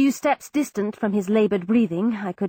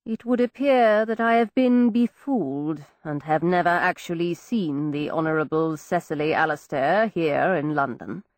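slowly; 7 semitones lower than usual. Acted. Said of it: "He replied slowly".

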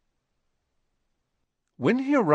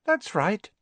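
sweetly; 12 semitones higher than usual. A narrator's reading. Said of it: "said Hermione sweetly".

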